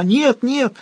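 plaintive wail. A narrator's reading. Olga sobbing into the cushions, high plaintive wail. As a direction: wail in hysterical despair. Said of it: "жалобно вопила она".

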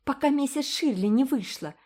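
hurry, panting; breathless hurry. A narrator's reading. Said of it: "задыхаясь". (запыхавшись)

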